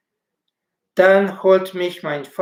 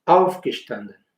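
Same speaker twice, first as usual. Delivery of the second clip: Aufgestanden, first syllable auf strong, rest falling; stress on auf; 4 semitones lower than usual. Shown as a demonstration. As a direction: hit auf, let gestanden fall away. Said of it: "el acento tónico sobre la primera sílaba".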